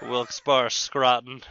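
Scranton copied as skrah-tun, lightly mocking the co-host's odd version; teasing imitation. Co-host teasingly echoing the odd Scranton pronunciation. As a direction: echo his skrah-tun for Scranton back at him. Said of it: "What was that?".

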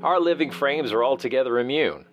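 reading a classic novel aloud; measured literary narration; dramatic reading. Acted. Host reads Wells passage aloud.

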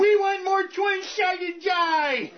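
very high, slow, whiny nerd shout. Pretend. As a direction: shout like a nerdy protester. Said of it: "I just love using that voice".

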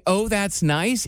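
slow flat dad. Retold or imitated. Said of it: "your dad saying".

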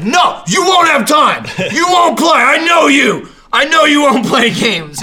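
high, loud mock rant; mock insistent shouting. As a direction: yell it like an outraged online heckler. Mimicking an insistent online stranger.

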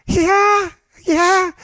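high, eager nerdy detective; Marvin. Acted. Mock detective sure he has proof, overexcited. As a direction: crow it in mock triumph. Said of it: "the overly aggressive, nerdy detective".

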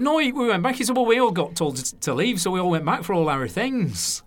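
cheerful northern Lancashire, unfazed; Lancashire accent. Retold or imitated. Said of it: "So it's my Lancashire accent there".

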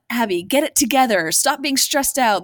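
a bossy inner critic snapping at herself; mock harsh scolding. Harsh self-talk, acted example.

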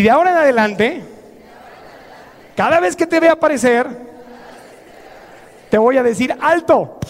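measured firm address, rising to a command; firm confrontation. Acted. Speaker confronts the little inner voice, firm and building. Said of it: "Y dile".

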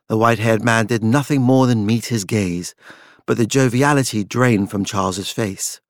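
usual speaking voice

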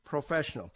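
"professional" set off by itself, deliberately emphasized; emphasis on professional. Real, not acted. Realtor warning buyers against amateur inspectors, emphasizing "professional". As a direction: underline the word "professional" as a key point. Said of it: "and I emphasize professional".

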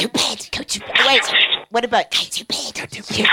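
put-on light British accent. Guest trying out the ghost's line in a British accent. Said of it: "with a British accent".

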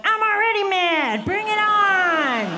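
hammed-up weepy resolve; mock crying. Comic reacting to cute puppy headline with mock tears.

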